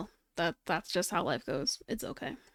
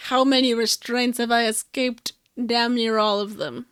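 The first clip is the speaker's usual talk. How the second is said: villain boast; 8 dB louder than usual. Pretend.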